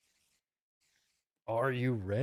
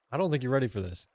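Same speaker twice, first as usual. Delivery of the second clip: louder, punchy teasing declaration; loud hype; 5 dB louder, much faster than usual. Real, not acted. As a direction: announce it boldly to the chat.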